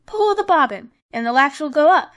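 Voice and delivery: sick grandmother calls out loud from her bed; grandmother calling out. A narrator's reading. Grandmother calls to the visitor at the door, loud call. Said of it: "cried out".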